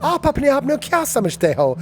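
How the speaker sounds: high, dramatic filmi delivery of "आप अपने आप को क्या समझते हो"; hammed-up film hero line; Bollywood hero. Shown as a demonstration. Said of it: "It's like Lagan".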